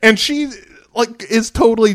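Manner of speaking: high giggling through the words; high laughter while narrating; laughing. Real, not acted. Laughing at the scene.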